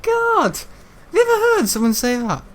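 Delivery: very high voice, overcome with laughter; laughing. Real, not acted. Speaker marvelling at his own odd phrase, laughing. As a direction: gasp it out while cracking up.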